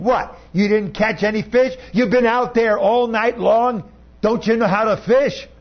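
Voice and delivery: taunting. Acted. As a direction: needle the fishermen playfully. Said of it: "is taunting them and saying".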